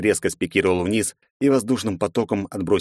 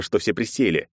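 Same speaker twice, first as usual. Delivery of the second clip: plain reading voice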